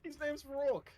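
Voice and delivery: high voice. Acted. Mock pronouncing dinosaur name.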